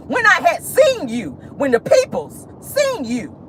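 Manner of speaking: slow country-uncle phrasing; talk like Wanda. Retold or imitated. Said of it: "Let me talk like Wanda".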